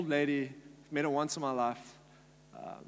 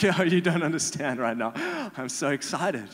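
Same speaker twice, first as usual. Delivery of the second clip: giddy excitement; 6 dB louder than usual. Retold or imitated. Giddy reply to pastor.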